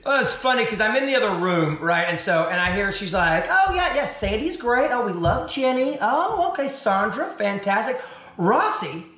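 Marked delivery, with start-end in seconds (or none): 3.5-9.1 higher, gushing sales pitch on the phone; lightly voiced, chirpy talent manager; manager mode. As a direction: talk up your clients like a pushy agent. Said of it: "she just goes right into manager mode".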